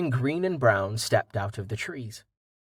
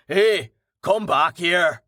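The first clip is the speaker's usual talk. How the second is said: higher, drawn-out shout; raised, slow holler; calling after runaway; 6 semitones higher, 4 dB louder, slower than usual. A narrator's reading. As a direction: call after someone getting away. Human calls after fleeing horse.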